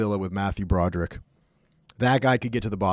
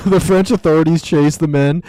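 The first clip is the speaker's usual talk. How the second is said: mock news read; 7 dB louder than usual. Mock news report, laughing.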